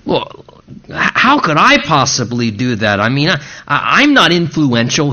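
lightly acted self-doubt, stammering over the starts; a touch of stammering insecurity; insecure Gideon. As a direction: haltingly protest like someone who feels inadequate. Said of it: "default to struggling with what? His own insufficiency".

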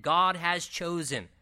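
GOD HAS CHOSEN said slowly and deliberately; emphatic repetition. Shown as a demonstration. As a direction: weigh out each word of GOD HAS CHOSEN. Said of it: "for emphasis".

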